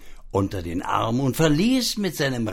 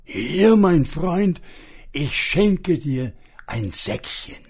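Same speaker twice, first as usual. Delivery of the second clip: magic pig; 5 semitones higher than usual. Acted. Magic pig offers a little sack.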